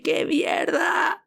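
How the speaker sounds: slow, high, stretched cry of disbelief; drawn-out amazed shout; astonished shout. Retold or imitated. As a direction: yell it out in shock and awe. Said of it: "gritábamos".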